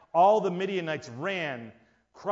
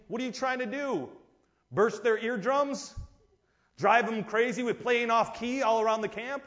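mocking soldier; 5 semitones higher than usual.

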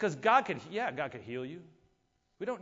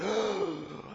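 mock gasp; 4 semitones higher than usual. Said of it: "a demon popped out and was like".

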